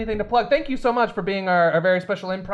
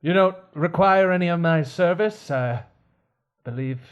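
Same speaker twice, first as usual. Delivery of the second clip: put-on world-weary old servant; 3 semitones lower than usual. Butler offers to leave.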